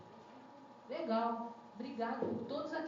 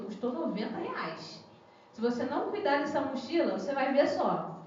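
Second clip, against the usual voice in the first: mock stern parent scolding; 4 dB louder than usual. Parent scolds son over backpack.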